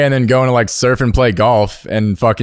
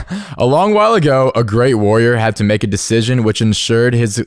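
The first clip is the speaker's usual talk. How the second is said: measured fireside storytelling. Shown as a demonstration. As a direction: tell it like a campfire tale. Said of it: "let me get my storytelling voice on".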